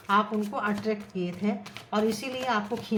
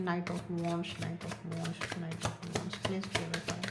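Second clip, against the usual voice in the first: soft, repetitive tarot chant; murmured card invocation; 2 semitones lower, 6 dB quieter, much slower than usual. Real, not acted. Tarot reader asking the cards to clarify, murmured invocation. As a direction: quietly intone it under your breath.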